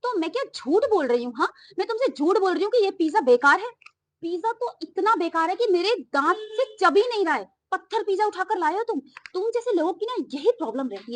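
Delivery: angry customer rejecting the pizza; angry complaint. Acted. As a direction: tell the delivery guy off sharply. Customer scolds delivery man.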